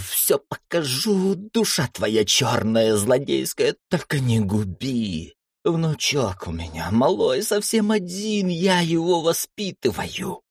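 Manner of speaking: high, slow tearful wailing; wailing lament. Acted. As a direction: plead and wail like a sobbing old man. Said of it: "разрыдался и запричитал". (причитая сквозь слёзы)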